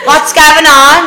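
bouncy concern. Retold or imitated. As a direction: bounce in all eager. Bouncing over to the girls.

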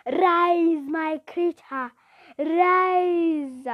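loud, high, commanding mad scientist; crazy scientist. Acted. Boy ordering his creature to rise, crazy scientist voice. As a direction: command the monster with drawn-out cries. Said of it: "in my crazy scientist voice".

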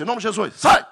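rising to a loud high sai; commanding shout. Retold or imitated. Pastor casts out the demon with a loud shout. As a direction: bark the command to get out.

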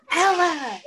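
calling out sharply mid-reading; real exasperated shout. Real, not acted. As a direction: shout the name over the interruption. Child interrupts the reading.

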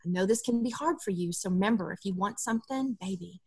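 softly reassuring parent; gentle. Shown as a demonstration. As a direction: gently reassure a daughter before the store. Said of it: "we very gently come to them and say".

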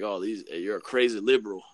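light mock Southern accent imitating a right-winger. Mocking a right-wing stereotype to his co-host, light Southern accent. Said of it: "I don't know why I did a Southern accent".

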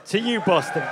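loud rallying toast; toast shout. Real, not acted. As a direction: call it out to the crowd. Toast to crowd.

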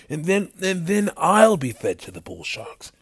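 high, stammering worry; worried outburst. A narrator's reading. Knox fearing the bull sharks, worried high voice. Knox panics about his own fate.

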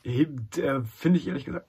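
hoarse voice that keeps failing; voice giving out. Real, not acted. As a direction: talk as the voice cracks and gives out. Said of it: "mir meine Stimme versagt gerade".

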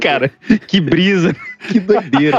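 slow, dazed laughing musician; stoned. Retold or imitated. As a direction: drift through it, half-giggling. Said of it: "Você fala".

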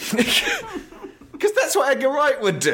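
high, slow, drawn out through laughter; barely holding it together while talking; laughing. Real, not acted. Host joking about a director's style, laughing. Cracking up at own joke.

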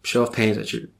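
over-the-top advice column read; mock magazine advice read. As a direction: read it like a teen magazine tip.

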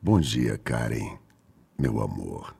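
deep, soft seductive greeting; sultry radio voice. Shown as a demonstration. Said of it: "Você tem uma voz sedutora".

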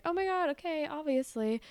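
lightly acted thrilled girl; eager yes. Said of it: "And you're like".

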